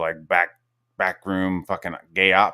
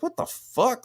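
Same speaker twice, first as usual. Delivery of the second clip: mock shock; slower than usual. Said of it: "it was like".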